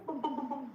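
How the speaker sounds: explaining the bata drum, mimicking its boom; drum imitation. Shown as a demonstration. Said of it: "not bata in that boom".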